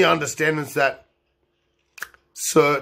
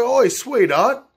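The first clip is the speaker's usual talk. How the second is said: higher, slow mock officer; mock cop voice; 7 semitones higher, slower than usual. A cop taunting a drunk driver, mock voice. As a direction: drawl it like a cocky cop. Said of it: "She's like".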